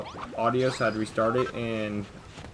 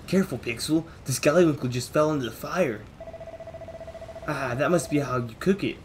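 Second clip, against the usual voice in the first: animated companion voice; character voice; 3 semitones higher, 4 dB louder than usual. Acted. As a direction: voice the companion brightly. Voices character in game dialogue.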